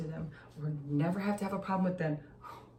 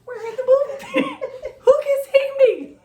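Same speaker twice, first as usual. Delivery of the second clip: high, loud, laughing protest; mock defensive mom laughing; 10 dB louder than usual. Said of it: "I was like".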